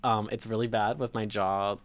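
talking with a stiff, barely open jaw; sore jaw. Real, not acted. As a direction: speak through a sore, half-closed mouth. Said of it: "I cannot open my mouth wider than, like, two inches".

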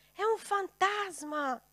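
high, loud, slow cry of fear; frightened cry. A narrator's reading. Disciples on the boat, loud frightened cry. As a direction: cry out at a ghost on the water. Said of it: "gridavano di paura".

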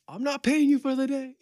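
mock boss. Joking about the boss docking pay, high squeak. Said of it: "boss is all like".

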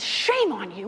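a touch of a stern rebuke; stern scolding. Retold or imitated. Friar scolding a would-be robber, mildly stern. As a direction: scold the robber, firm and flat. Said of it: "the brother shames the guy down and says".

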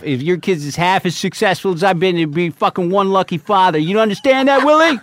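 rising from firm to loud high yelling; heated rant climbing to a yell; building shout. Retold or imitated. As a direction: tear into him, ending in a shout at Willie. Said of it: "Like that".

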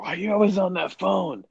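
imitating annoyed wife. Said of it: "She's like".

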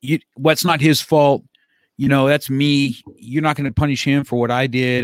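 mildly heated, emphatic imitation of an outraged parent; retold indignant dad. Dad protesting to the coach for his son, mock indignation. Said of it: "the dad just came unglued on the coach".

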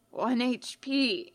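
weak, slow croak; a hurt skeleton's croak. A narrator's reading. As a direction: rasp it out, barely there. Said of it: "he croaks".

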